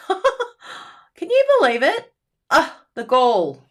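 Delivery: high, loud, slow laughing outrage; laughing disbelief. Real, not acted.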